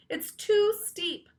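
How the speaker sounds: slow, high complaint; desperate. A narrator's reading. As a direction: plead that it's too steep. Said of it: "Emily shouted back".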